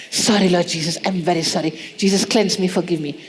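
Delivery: a gentle plea for forgiveness; contrite prayer. Pretend.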